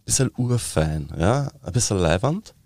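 slightly fancy Viennese lilt; Viennese dialect. Shown as a demonstration. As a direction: demonstrate Viennese with a finer air. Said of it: "also Wienerische".

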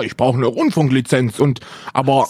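lightly voiced indignant streamer; a hint of a ranting streamer; Zinni impression. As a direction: mimic a streamer's outrage. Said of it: "Zinni A K A".

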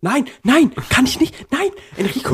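hoch vor Lachen. Real, not acted. Refusing in high laughing voice.

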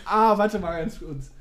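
laughing through cramp pain; strained and laughing, cramp holding on; getting a leg cramp. Real, not acted. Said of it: "ich hab wirklich einen Krampf".

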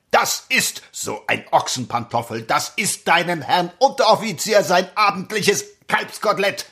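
mocking barracks sergeant; drill sergeant. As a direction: lecture the recruit with scorn. Sergeant lectures recruit.

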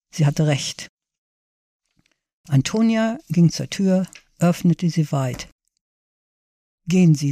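measured reading of a short story; story narration. A narrator's reading. Author reads her short story to library listeners, measured narration. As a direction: read it aloud with lightly voiced dialogue.

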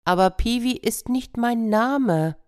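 high, haughty peacock voice; proud peacock. Acted. Peacock correcting the hen, high and haughty. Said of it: "sagte der Pfau".

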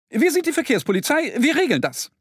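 very high, fast ant squeak; tiny ant police calling. Acted. Ant police announcing themselves to Mo, squeaky call. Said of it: "rufen sie".

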